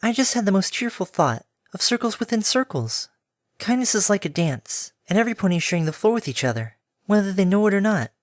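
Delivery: airy pegasus, musing happily; gentle mare voice. Acted. Pegasus muses dreamily.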